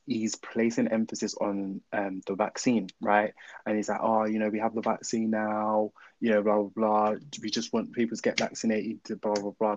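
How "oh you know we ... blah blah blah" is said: badly faked Boris Johnson-style English accent, slightly slowed; half-hearted mock politician's accent; terrible Boris accent. Podcaster mocking Boris's vaccine broadcasts, terrible put-on accent. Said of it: "That was a terrible accent".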